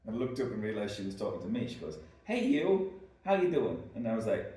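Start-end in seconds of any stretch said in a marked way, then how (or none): 2.2-3.8 big, high Boston barmaid greeting; horrible Bostonian accent. Retold or imitated. Barmaid hailing the reader at the bar, loud Boston accent. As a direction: holler it in a badly imitated Boston accent. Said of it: "my horrible Bostonian accent".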